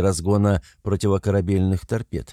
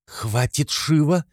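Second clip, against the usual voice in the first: sharp cutoff; 8 semitones higher, slower than usual. Acted. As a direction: cut him off sharply. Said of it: "прервала его Руди".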